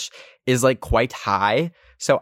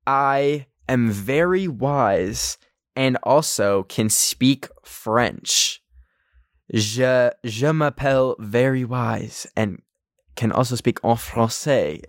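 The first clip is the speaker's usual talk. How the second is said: slow affirmation; slower than usual. Shown as a demonstration. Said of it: "Repeat after me".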